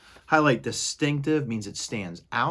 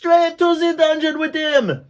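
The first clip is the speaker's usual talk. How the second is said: cried out; 11 dB louder than usual. Acted. Mouse in the crowd crying out for the dungeon. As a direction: cry out for punishment. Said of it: "a voice cried out".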